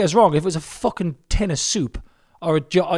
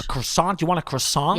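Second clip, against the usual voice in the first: American waiter offering "croissant"; American accent. Retold or imitated. Imitating an American in a French restaurant, American accent. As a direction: ask it with an American R and final T. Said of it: "Americans say croissant".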